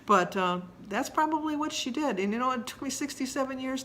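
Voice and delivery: half laughing, half crying; teary giggle, pitch up; tearful laugh. Real, not acted. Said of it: "I don't like to cry in front of people".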